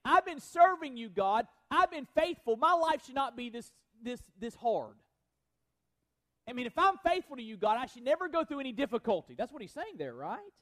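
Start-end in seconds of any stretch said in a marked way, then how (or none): 0.0-9.3 Elijah's complaint. Retold or imitated. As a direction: protest like a wronged servant of God. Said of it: "here's what Elijah's saying".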